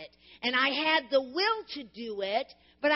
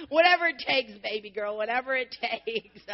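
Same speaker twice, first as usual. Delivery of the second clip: laughing indulgence; 3 dB louder than usual. Retold or imitated. Retold reply, laughing.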